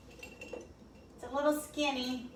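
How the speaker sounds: talking around a brush in mouth. Real, not acted. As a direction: paintbrush held between teeth. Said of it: "I have a brush in my mouth".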